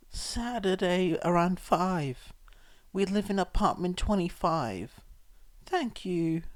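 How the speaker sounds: put-on the mother giving the boy her address, hushed; scarred woman. A narrator's reading.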